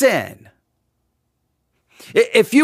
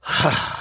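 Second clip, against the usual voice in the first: long, unvoiced exasperated sigh; weary sigh; 5 dB quieter than usual. Skeptic hearing the pastor's promise, sighing wearily. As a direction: let out a tired, eye-rolling sigh. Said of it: "just kinda go".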